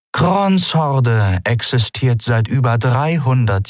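slow, deceptively calm captain; calm on the surface, menace underneath. Acted. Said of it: "in einem trügerisch ruhigen Ton". (trügerisch ruhiger Ton)

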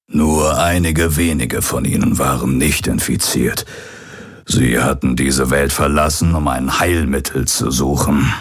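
lightly voiced old pirate revealing a secret; a hint of a father figure, deliberate and earnest. Old pirate reveals Garland's origin. (leicht angedeuteter alter Pirat, bedächtig)

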